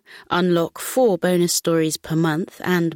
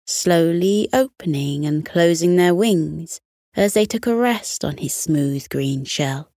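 soothing read-aloud voice; bedtime story narration. A narrator's reading. Bedtime story narration over music.

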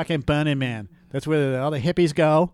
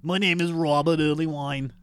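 put-on old Jewish woman. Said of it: "my impression of Robert is the same as an old Jewish woman".

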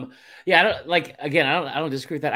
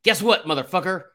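a light impression of a zoo showman, higher; ranting like the Tiger King guy, pitched up; 6 semitones higher, 4 dB louder than usual. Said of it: "That was my Tiger King impression".

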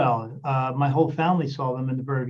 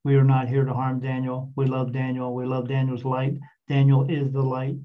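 flat robotic machine voice; computer voice. Retold or imitated. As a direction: read it out like a talking gadget. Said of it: "that same computer voice".

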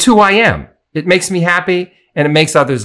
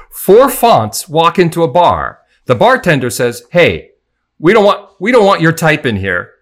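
flat setup lively punchline; 2 semitones higher, 4 dB louder than usual. Acted. Telling a pun joke.

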